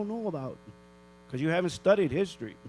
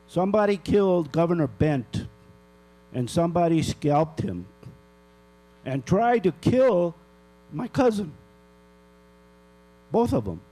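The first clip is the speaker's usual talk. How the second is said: raised, indignant voice; louder, hammering the accusation; angry; 4 dB louder than usual. Real, not acted. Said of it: "I'm really pissed off".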